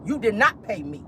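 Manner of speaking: retold outburst, partly hammed; mock angry designer. Vlogger voicing the angry designer calling Sheree a liar. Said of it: "done told her".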